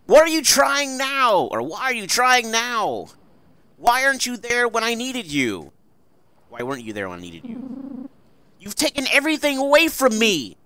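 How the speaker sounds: high, loud, desperate accusations; loud, high anguished pleading; anguished shout. Acted. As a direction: hurl it at him like a betrayed daughter. Voices Buddy's anguished lines.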